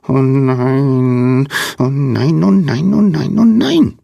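high, squeaky fretting; squeaky panicking little creature. A narrator's reading. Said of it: "piepste jemand".

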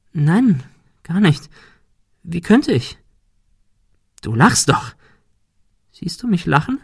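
high, teasing voice of a goat-faced creature; a sly goat beast taunting the detective; mocking goat creature. Monika/Pan voice answering.

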